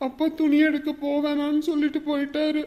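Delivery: soft, worried report; subdued. Acted. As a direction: tell your aunt softly. Child reports mother's crying to aunt. (தணிந்த குரலில்)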